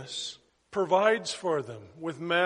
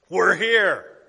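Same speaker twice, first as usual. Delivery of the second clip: firm call to go; 10 dB louder than usual. Retold or imitated. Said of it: "this is how he says it".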